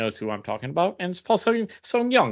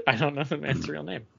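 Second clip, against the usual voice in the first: laughing echo; 2 semitones higher, 5 dB quieter than usual. Pretend. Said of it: "echoing S1 with a laugh".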